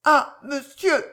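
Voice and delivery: high, slow, drawn-out plea; anguished plea. A narrator's reading. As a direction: plead weakly, drawing out the words. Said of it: "murmura-t-elle".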